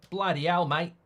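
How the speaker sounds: put-on light Australian accent, mate said as maɪt; a quick Aussie exclamation as Ange; Ange impression. Ange reacting on the touchline, in a light Australian accent. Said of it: "Here is Ange".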